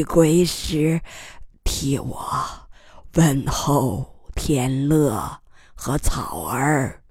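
faint halting whisper at times; dying words. Acted. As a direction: breathe the words out, weakly. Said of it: "他声音细弱，断断续续地说".

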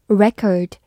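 "record" with a short schwa for the O; schwa in second syllable. Shown as a demonstration. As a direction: say "record" with a reduced second vowel, stress first. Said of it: "O发短音呃".

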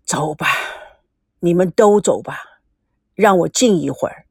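put-on a touch of a tired, resigned old man; weakened voice. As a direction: let the anger drain into resignation. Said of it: "声音语调转弱".

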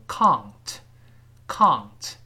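slow, wrong "ng" inside can't; mispronounced British can't. Shown as a demonstration. Teacher imitating a common mistake in British can't, ng-like ending. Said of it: "容易把英式的这个不能的缩写读成".

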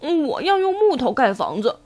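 lightly voiced middle piglet; second pig brother. Second pig telling little brother, lightly characterised voice. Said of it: "猪二哥对猪小弟说".

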